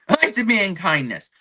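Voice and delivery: mock your own ultimatum, about to crack up; laughing mock outrage; amused self-mockery. Mocking own meltdown, breaking into laughter.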